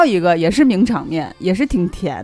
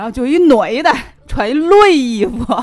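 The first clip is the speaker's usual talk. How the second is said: Tianjin dialect, raised pitch; 6 semitones higher, 3 dB louder than usual. Explaining why a line was hard to understand, the speaker repeats it in Tianjin dialect. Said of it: "因为天津话说女不说女人".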